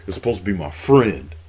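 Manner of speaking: quoted lightly, barely above his own voice; a touch of betrayed wrestler, understated; mild imitation of a hurt Batista. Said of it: "And Batista was like".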